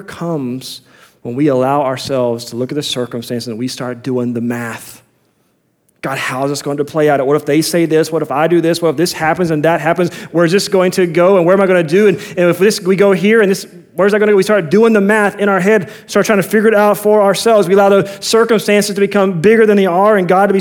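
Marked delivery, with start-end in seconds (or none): 6.0-14.4 mounting fretful what-ifs, lightly acted; anxious questioning. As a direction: let one worry tumble into the next. Acting out anxious racing thoughts.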